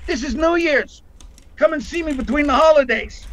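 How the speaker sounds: a playful, suggestive imitation of Lorraine; mock coy flirt; imitating Lorraine. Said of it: "he goes".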